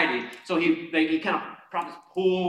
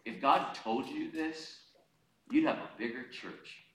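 enemy's quiet insinuation; 2 semitones lower, 8 dB quieter than usual. Acted. Voices the enemy's discouraging taunt.

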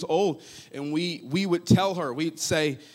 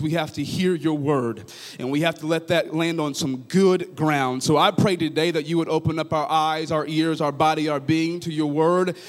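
prayer. Real, not acted. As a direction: pray it out, building to full force. Leads a prayer.

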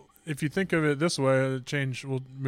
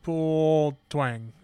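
slow and deliberate; much slower than usual. Shown as a demonstration. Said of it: "is a slow, methodic pull".

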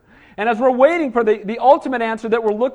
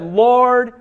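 cry for help; 4 dB louder, much slower than usual. Acted. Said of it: "She prayed out loud for everybody to hear".

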